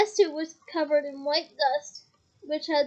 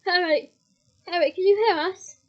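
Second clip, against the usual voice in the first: loud call through a wall; 3 semitones higher, 6 dB louder than usual. Acted. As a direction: shout to be heard behind boards. Calling through the boarded fireplace.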